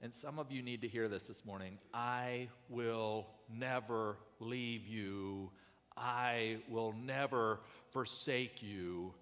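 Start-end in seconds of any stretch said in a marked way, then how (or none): 1.9-9.1 tender promise. Acted. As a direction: comfort them gently. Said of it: "And he says".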